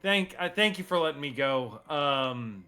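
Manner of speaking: lightly voiced grateful captive; NPC captive voice. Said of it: "and he's like".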